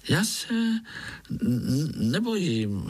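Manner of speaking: stammering, high and scared; frightened little spider stammering; thin little voice. A narrator's reading. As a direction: stutter the denial, pretending not to be afraid. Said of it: "řekl Pája tenkým hláskem".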